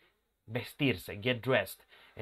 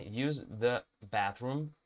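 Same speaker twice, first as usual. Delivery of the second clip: slow model; 3 semitones lower, 5 dB quieter, slower than usual. Shown as a demonstration. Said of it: "Sería la versión formal".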